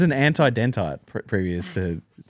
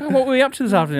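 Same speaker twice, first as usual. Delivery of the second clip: suspicious dad; 10 semitones higher, much faster than usual. Retold or imitated. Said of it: "Frank would be like".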